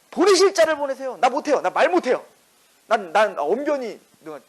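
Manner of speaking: Moses refusing. Retold or imitated. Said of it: "근데 모세가 어떻게 하죠?".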